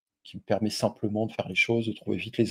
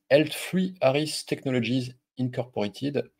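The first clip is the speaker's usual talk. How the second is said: French speaker spelling out an English company name slowly in a clumsy English accent; bad English accent, read slowly; 3 semitones higher, slower than usual. Real, not acted. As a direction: stumble through the English name with a poor English accent. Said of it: "Mon accent anglais est pourri".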